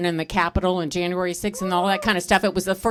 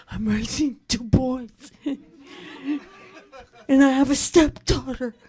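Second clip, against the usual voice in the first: laughing through it; 4 semitones higher, slower than usual. Retold or imitated. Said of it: "I said".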